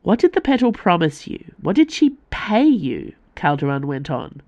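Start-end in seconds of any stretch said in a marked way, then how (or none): 0.0-3.1 much higher and louder, seething accusation; fuming. A narrator's reading. Calderon accusing Icaros of betrayal, fuming. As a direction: hurl the accusations, barely contained.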